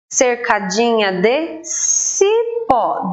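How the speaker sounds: "Cercadinha de cipó" read slowly and evenly. Shown as a demonstration. Teacher reading the verse slowly to pupils. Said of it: "duas sílabas".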